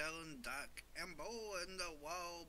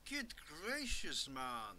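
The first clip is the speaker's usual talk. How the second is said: surprised; 3 semitones higher, 4 dB louder, much slower than usual. Real, not acted. Reacting to game monsters.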